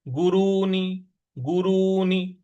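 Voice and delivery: गुरूनी with short गु and long रू, drawn out slowly; vowel length demo. Shown as a demonstration. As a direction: stretch the रू in गुरूनी. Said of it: "ग पर छोटा उ की मात्रा". (गुरूनी में छोटा उ और बड़ा ऊ साफ़)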